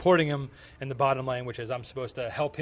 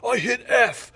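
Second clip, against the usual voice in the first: mock protest; 9 semitones higher, 8 dB louder, slower than usual. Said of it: "He's like".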